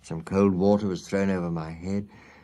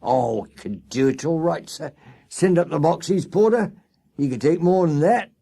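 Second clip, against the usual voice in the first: much higher, louder cabman's voice; keen to take the fare, pitched up and loud; eager cab driver; 9 semitones higher, 6 dB louder than usual. Acted.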